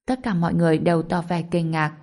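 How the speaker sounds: usual speaking voice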